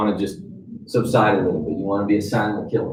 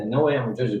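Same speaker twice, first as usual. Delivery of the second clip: soft repeat; 6 dB quieter, much faster than usual. Shown as a demonstration. Advisor gently repeating reassurance to a client, softly. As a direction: repeat it softer, "no" only lightly leaned on. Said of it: "I'll say that".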